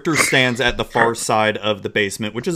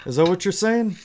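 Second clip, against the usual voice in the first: scornful orc boss; 5 semitones higher than usual. Acted. Orc boss scolding the party.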